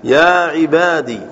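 slow يا عبادي ending on "di"; kasra without ya. Shown as a demonstration. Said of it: "بدون ياء".

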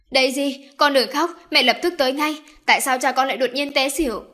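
calm her down in a rush; urgent reassurance. Acted. Mother urgently soothing Daisy on the phone.

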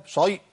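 شيء with a thick emphatic ya; wrong heavy ya. Shown as a demonstration. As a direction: give شيء a heavy, full-mouthed ya as the error. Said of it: "ما ينفعش". (نطق شيء مفخمة خطأ)

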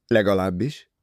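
firmer questioning repeat; probing echo. A narrator's reading. Poirot pressing Jackie on her doubt, a probing echo. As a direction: hand the word back as a question.

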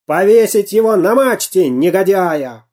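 furious pirate yell; raging pirate. A narrator's reading. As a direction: rage at the traitor. Pirate rages on.

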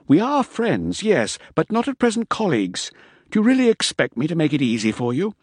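lightly voiced sly taunting; mocking defiance. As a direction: needle them, coolly superior. Bele drops his helpful pretence.

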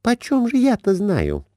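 high, fretful wife's voice; Глафира, high. A narrator's reading. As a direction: voice her up high and anxious. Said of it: "отвечала Глафира Семёновна". (высокий капризный голос жены)

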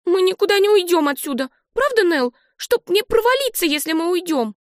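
put-on high child's voice, stubborn; defiant little girl. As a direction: dig your heels in like a kid. Olive defiant.

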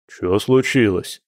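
slow, mildly amazed question; astonished question. Acted. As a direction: draw the question out in mild astonishment. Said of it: "изумлённо спросил Борис".

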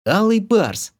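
high, excited squeak; squeaky. Acted. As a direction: squeal it out like a delighted girl. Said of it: "пискнула волшебница".

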